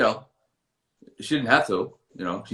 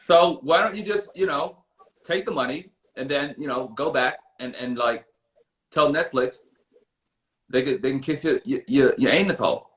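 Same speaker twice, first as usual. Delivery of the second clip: Russell Simmons impression; 2 semitones higher than usual. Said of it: "So Russell and Doctor".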